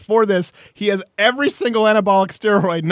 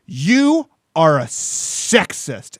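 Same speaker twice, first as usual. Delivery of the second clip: mad wife's accusation; much slower than usual. Retold or imitated. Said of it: "when she got really mad one time".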